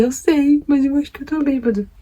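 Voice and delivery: high, tipsy voice, a touch put-on; telling her friend she's drunk, in a high tipsy voice; tipsy giggly confession.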